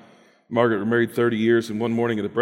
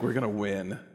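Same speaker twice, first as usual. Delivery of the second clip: softer, sure inner promise; quiet confidence; 6 dB quieter than usual. Retold or imitated. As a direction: say it softly and sure. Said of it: "Peter wants us to think".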